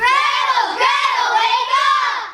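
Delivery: loud, high call to wake her. Acted. Friend shouting to wake sleeping Gretel.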